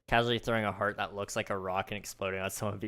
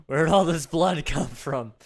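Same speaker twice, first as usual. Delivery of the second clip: put-on high, loud panicked boy; shocked son covered in blood; alarmed kid; 5 semitones higher, 7 dB louder than usual. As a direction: shout it in horror like a kid. Kid after explosion.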